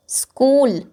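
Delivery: "स्कूल" with a drawn-out ऊ; long oo sound. Shown as a demonstration. Teacher models long oo in "स्कूल" for class. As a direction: hold the ऊ in "स्कूल". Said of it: "ये long sound है".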